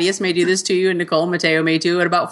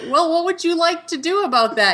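patient mom; 10 semitones higher than usual. Retold or imitated. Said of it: "And I was like".

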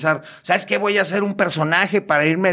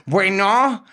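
a lightly campy, higher phone hello; imitated transvestite answering; 4 semitones higher than usual. Transvestite performer answers a prank call, lightly put-on high voice. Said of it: "Le voy a hablar igual".

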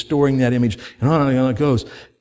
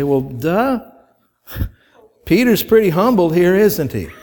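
mock duh; 4 semitones higher than usual. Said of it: "And we say".

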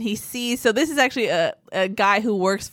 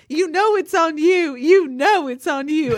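higher, slow mock Southern twang, pushed out loud; imitating a Southern twang; 7 semitones higher, 5 dB louder, slower than usual. Lineman pointing at the opponents over an offsides call, in a mock Southern twang. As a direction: play it like a lineman pointing and insisting in a thick Southern drawl. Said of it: "with a, just a glorious Southern twang".

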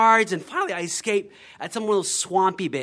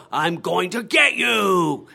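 monster threat; slower than usual. Acted. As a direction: drag it out to scare the children. Mummy chasing hayride kids.

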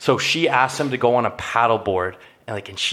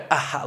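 imitated douchey laugh, a bit higher; 4 semitones higher, 3 dB quieter than usual. Showing co-host the contestant's laugh, douchey laugh. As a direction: put on a short douchey "ah" laugh. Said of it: "like, with the douchey laugh".

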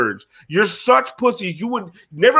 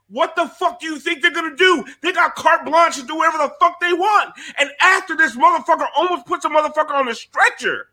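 higher, fast furious ranting; heated rant; 5 semitones higher than usual. Real, not acted. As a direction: vent at the refs, voice up high.

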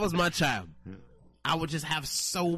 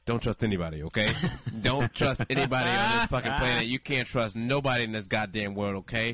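grim dad rant; 3 semitones lower than usual. Retold or imitated. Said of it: "I'll be like".

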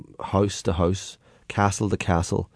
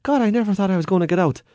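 put-on high, groggy old man just woken; dazed stowaway; 11 semitones higher than usual. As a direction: sound bewildered and relieved. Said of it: "he said".

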